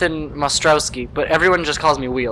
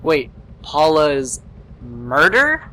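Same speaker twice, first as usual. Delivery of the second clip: stunned; much slower than usual. Acted. Shocked by news of death.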